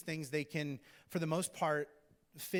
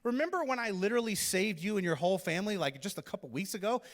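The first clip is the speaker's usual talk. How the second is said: raised, louder mock protest at the widow; pleading he's on her side, higher and louder; imitating Elijah, exasperated; 5 semitones higher, 4 dB louder than usual. Preacher voicing Elijah protesting to the widow, exasperated. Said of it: "I'm just like".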